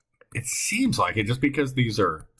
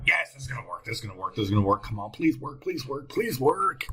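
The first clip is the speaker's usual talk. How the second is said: urgent, repeated mock pleading; playful pleading; faster than usual. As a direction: beg the sum to work, drawing out the last plea. Hopes aloud the sum works.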